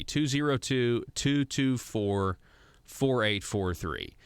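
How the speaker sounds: slow, even digits; slow number read. Shown as a demonstration. Host to viewers, reading the senator's number slowly. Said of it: "I'm gonna say it slower".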